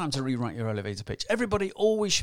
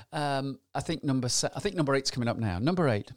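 normal talking voice

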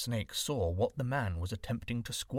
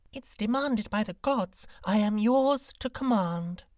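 devoted green snake; 9 semitones higher, 5 dB louder than usual. A narrator's reading. Green snake pledges loyalty.

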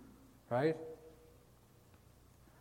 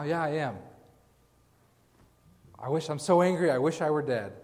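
put-on toddler tantrum; 3 semitones higher, 3 dB louder than usual. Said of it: "It's like a three-year-old".

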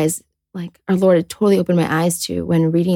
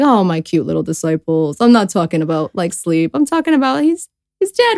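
fond teasing; 2 semitones lower than usual. Retold or imitated. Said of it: "Jesus kinda does his little".

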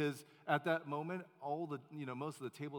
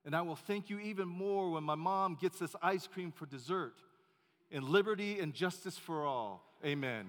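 put-on higher, louder eager boy praying; lightly voiced boy's hearty prayer; mock child's prayer; 3 semitones higher, 5 dB louder than usual. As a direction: pray it like a proud little kid. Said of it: "He said".

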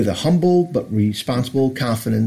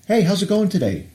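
bright upbeat hello, pitched well up; imitating a cheerful drive-thru worker greeting a customer; cheery greeting; 8 semitones higher than usual. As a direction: sound thrilled to see the customer.

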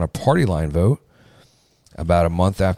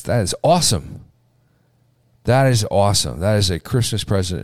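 excited; 3 semitones higher than usual. Real, not acted. Host cheering legislation news.

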